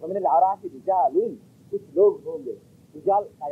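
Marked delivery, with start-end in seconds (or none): 0.0-1.3 Quranic recitation. Shown as a demonstration. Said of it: "लफ्ज़ रिजाल बोला गया".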